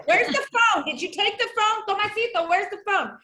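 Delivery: high, insistent mock questioning; acted-out searching mom. Mother asking her son about the phone, acted-out high urgency. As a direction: play a mother pressing her kid for answers.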